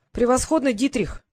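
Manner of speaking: a bright cheer to a comrade; encouraging exclamation. Acted. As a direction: praise him mid-fight. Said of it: "ободряюще воскликнул Карл".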